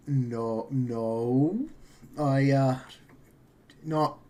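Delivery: put-on a rough, practicing Irish accent. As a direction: mumble it in a shaky Irish accent. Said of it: "I'm still practicing my Irish accent".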